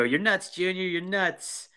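imitated movie taunt. Podcaster quoting the taunt at Junior, high mock voice. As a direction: lift the voice as if jeering at Junior. Quotes characters' taunt from film.

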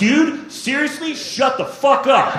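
the dog scolding a clueless stoner; annoyed dog telling him off; exasperated dog. Retold or imitated. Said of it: "the dog's like".

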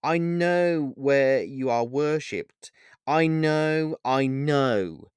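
high, anguished pleading with halting breaks; tearful. A narrator's reading. Paul asks who Pan really is, tearful and high. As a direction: plead through tears, faltering then rising high. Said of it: "asked Paul with tears in his eyes".

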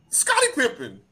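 ordinary talk, nothing marked

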